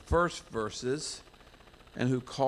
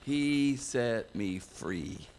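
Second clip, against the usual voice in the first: moved testimony; much slower than usual. Retold or imitated. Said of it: "I'll never forget his voice".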